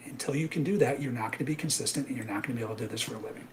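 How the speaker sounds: winded at the end of a rant; breathless, rushing out the last words; out of breath. Real, not acted. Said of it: "I'm out of breath on that one".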